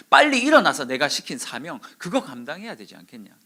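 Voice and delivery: loud order easing toward the end; forceful rebuke. Retold or imitated. Preacher as God sending Elijah to his mission, forceful. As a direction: urge hard, then settle into reproach. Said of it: "엘리야에게 강하게 말씀하셨어요".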